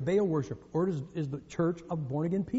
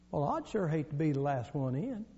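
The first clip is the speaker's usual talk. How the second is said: Southern gentleman; 4 semitones lower, 7 dB quieter than usual. Acted. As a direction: deliver it deadpan in a quiet Southern accent. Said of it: "Same guy, same guy".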